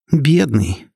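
mock his pity; sarcastic snort. A narrator's reading. Heroine sneers at the self-pitying boss. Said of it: "саркастически фыркнула я".

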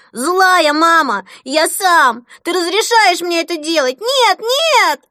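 put-on high, slow, loud child's wail of rage; screaming tantrum. Boy screaming at his mother in the bath, slow high furious wail. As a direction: howl it like a toddler losing it.

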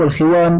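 الخوان with i after خ; kasra on kha. Shown as a demonstration. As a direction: say الخوان as al-khiwan. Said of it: "بكسر الخاء".

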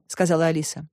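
ordinary delivery, nothing marked

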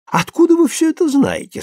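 curt, pitched high; sharp question. A narrator's reading. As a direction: challenge him abruptly. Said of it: "спросил довольно резко Миша".

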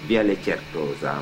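ordinary delivery

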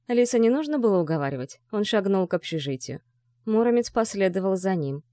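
usual speaking voice

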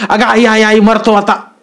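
whipped oil-presser wailing; wailing in pain. A narrator's reading. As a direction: howl that he is dying under the whip. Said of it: "तोंडावर हात घेऊन तिने ओरडला".

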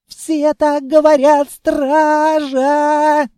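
high, loud panicked shopkeeper yelling for help; panicked shriek. A narrator's reading. Frightened shopkeeper behind the door screaming for the guards. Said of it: "визжал всё громче".

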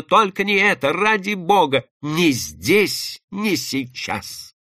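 high, desperate plea, fading at the end; desperate exclamation. Acted. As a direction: beg him frantically to stop. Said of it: "воскликнула отчаянно".

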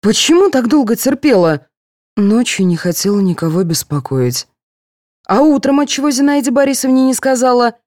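a nurse pressing her patient for answers. A narrator's reading.

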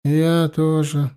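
slow, bashful and coy. Acted. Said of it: "потупила глазки она".

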